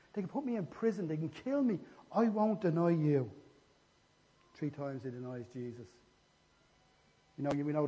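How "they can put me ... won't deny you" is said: higher, emphatic protest, slowing at the end; insistent vow. Acted. Peter vowing loyalty to Jesus, insistent. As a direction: swear it firmly, leaning on the last words.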